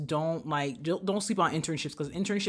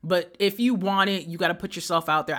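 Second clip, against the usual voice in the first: motivational speaker; 4 dB louder than usual. Pretend. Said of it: "I'm about to sound like a fucking motivational speaker".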